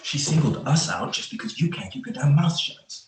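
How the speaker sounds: annoyed scolding. Acted. Partner blaming the other for being singled out, annoyed scolding. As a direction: scold your partner for talking back. Partners quarrel in patrol car.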